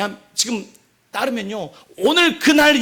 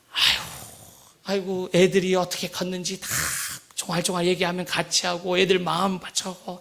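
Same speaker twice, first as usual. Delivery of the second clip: lightly acted sighing husband, lower voice; weary husband; 3 semitones lower, 5 dB quieter than usual. Tired husband listening to the children chatter, weary sighing. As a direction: sigh through the chores of family life. Acts out a worn-out modern husband.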